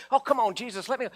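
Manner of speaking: mock whiny pleading, let me go; healed man begs Jesus to take him along, whiny; begging follower.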